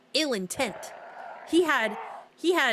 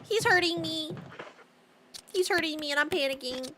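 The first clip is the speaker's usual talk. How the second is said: mock panicked cries for help; 5 semitones higher than usual. Game character attacking her.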